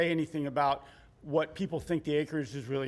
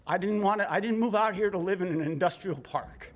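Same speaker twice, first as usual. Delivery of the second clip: shaky voice; 2 semitones higher than usual. Real, not acted. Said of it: "Excuse my shaky voice, I'm freezing".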